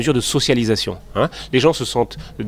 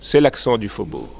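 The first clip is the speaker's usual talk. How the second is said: Faubourg accent. Shown as a demonstration. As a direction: demonstrate a slight Faubourg accent, lifting then drawing out. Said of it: "Vous voulez que je le fasse?".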